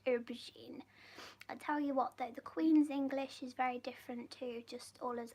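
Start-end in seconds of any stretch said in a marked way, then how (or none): 0.0-0.8 "aubergine" said the British way, OH-buh-zheen; British pronunciation. Shown as a demonstration. Showing viewers how Brits say "aubergine", oh-buh-zheen. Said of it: "is how the Brits say it".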